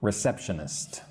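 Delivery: "receptionist" said alone, low and soft; quiet, measured "receptionist"; careful single word. Shown as a demonstration. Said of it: "Let's slow down and look at that word".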